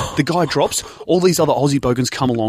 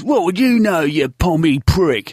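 mock bogan heckle; 4 semitones higher, slower than usual. Retold bogan heckler turns and insults.

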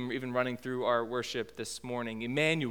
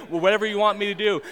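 put-on eager kids; 4 semitones higher, 6 dB louder, much faster than usual. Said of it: "Like, they".

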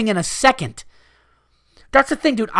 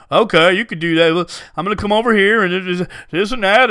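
put-on redneck dad voice; rednecky dad. Customer mimicking a rednecky dad at the yogurt shop. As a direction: imitate an easygoing rednecky dad. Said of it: "rednecky dads who was just like".

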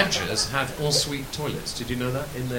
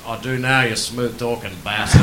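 lightly voiced Sheila; 7 dB louder, slower than usual. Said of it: "And she says".

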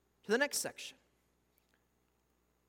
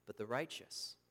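hushed sermon gravity; solemn pronouncement; 9 semitones lower, 8 dB quieter than usual. Acted. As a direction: let the judgment fall quietly. Solemn reading of judgment.

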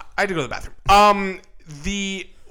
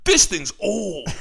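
higher, slow put-on actor voice; Mal Cell impression; 4 semitones higher, slower than usual. Co-host repeating the actor impression, higher drawn-out mimicry. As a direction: stretch out the movie line in character. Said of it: "That's my Mal Cell impression".

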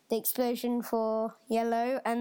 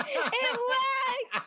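high excited squeal; thrilled it actually worked; 12 semitones higher, much slower than usual. Real, not acted. Just tried the trick.

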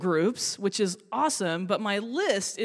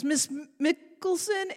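put-on kid calling; 7 semitones higher than usual. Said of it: "he goes".

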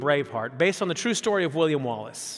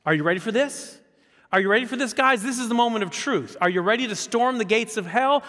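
mock rallying cry; 4 semitones higher than usual. Imagined rallying speech by Jesus.

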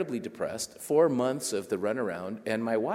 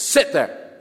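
curt command; 5 semitones higher, 8 dB louder than usual. Retold or imitated. Agent's curt order, far.

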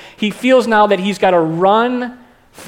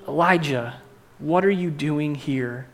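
God's soft whisper; 4 semitones lower, 7 dB quieter than usual. Retold or imitated. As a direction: voice God as a still small voice. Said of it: "saw God's whisper".

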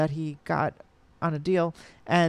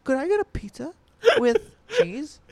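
Romy's funny voice; 8 semitones higher than usual. Retold or imitated. Friend mimicking Romy's voice from the movie, high ditzy squeak. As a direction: impersonate Romy ordering food in a ditzy squeak. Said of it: "Romy is doing the funniest voice".

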